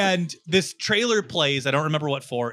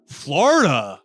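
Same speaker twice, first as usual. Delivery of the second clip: chill bouncer; 6 semitones higher, 5 dB louder, slower than usual. Retold or imitated. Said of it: "the guy goes".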